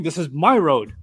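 my stressed, falling at road. Shown as a demonstration. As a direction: claim the road with my. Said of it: "as if the Prophet … saying".

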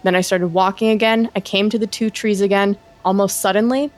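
brisk, low-key first-person storytelling; story read aloud. Acted. Host reads co-host an eerie forest tweet, story read aloud.

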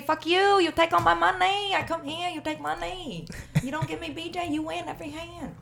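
mock Vietnamese accent, cursing the dealer for losing. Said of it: "And then they say".

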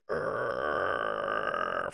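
low frustrated urgh groan. Retold or imitated. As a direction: groan out in exasperation.

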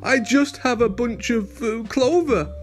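squeaky scared rabbit. A narrator's reading. Frightened rabbit stammering.

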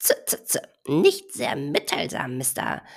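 mocking. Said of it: "spottete der Madenhacker".

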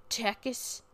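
Texas said as "Tex-iss" with a ch-like start; friend's pronunciation. Retold or imitated. Driver quoting friend's version of a state name, odd pronunciation of Texas. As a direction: imitate a friend saying Texas as "Checkis". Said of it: "as my friend Liz would say".

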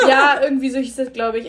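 loud laughing words. Real, not acted. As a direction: laugh through it. Laughing over festival name.

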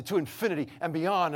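high, loud triumphant topper; excited one-upping. Retold or imitated. Dad outdoing his daughter in the love game, high and excited. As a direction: declare it as the winning bid.

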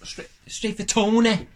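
broad Manchester voice; Mancunian accent. Acted. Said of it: "like Liam Gallagher".

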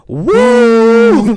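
very high, loud, long "woo"; piercingly high imitation cheer; mock crowd whoop. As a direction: whoop like a canned audience cheer. Imitates canned audience cheer.

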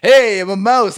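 a quick mock mouse hello; Mickey Mouse. Answering what Mickey Mouse sounds like. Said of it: "what's Mickey Mouse sound like".

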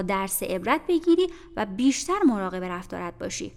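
stern aunt lecturing. Acted. Mrs Reed lecturing Jane.

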